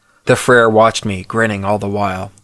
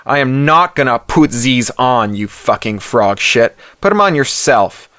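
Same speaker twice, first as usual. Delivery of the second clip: a touch of belligerent Yankee defiance, rising on the last line; defiant refusal; 3 semitones higher than usual. Acted. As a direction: snarl back at the soldier, not backing down. Roommate defies the soldier.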